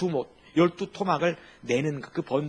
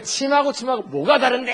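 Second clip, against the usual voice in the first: exasperated Seoul man; 8 semitones higher, 6 dB louder than usual. Retold or imitated. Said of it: "서울 사람이 하도 기가 막혀가지고".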